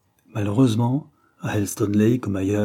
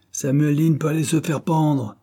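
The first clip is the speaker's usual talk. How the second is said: high, forceful dismissal; storyteller's heated outburst; narrated cry; 7 semitones higher, 3 dB louder than usual. A narrator's reading. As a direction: curse him off with moderate force. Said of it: "cria Peters".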